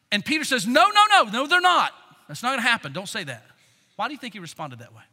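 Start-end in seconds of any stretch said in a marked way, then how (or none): 0.7-3.4 high, loud outburst, easing off; alarmed protest. Acted. Peter objecting that Jesus will be crucified, protesting. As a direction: cut him off in urgent denial.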